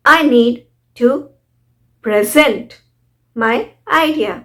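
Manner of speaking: careful, spaced example with pre-ZENT for present; stress on ZENT. Shown as a demonstration. Teacher gives a verb example, stress on second syllable of present. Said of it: "यहाँ पर stress हुआ जेंट के ऊपर".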